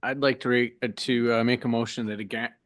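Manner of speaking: tripping over the words, losing the thread; flustered stumbling. Real, not acted. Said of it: "let me collect myself here".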